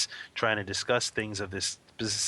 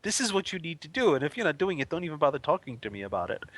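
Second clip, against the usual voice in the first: stern teacher; 4 semitones higher, faster than usual. Pretend. Stern teacher laying down rules.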